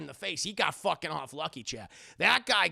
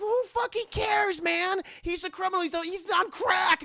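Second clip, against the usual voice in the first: much higher, dismissive whine; bratty Robin voice; 12 semitones higher, 6 dB louder than usual. Retold or imitated. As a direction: shrug it off like a brat. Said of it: "And he's like".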